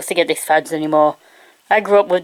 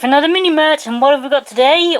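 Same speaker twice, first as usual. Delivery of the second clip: upbeat intro; 6 semitones higher than usual. Acted. Show intro announcement.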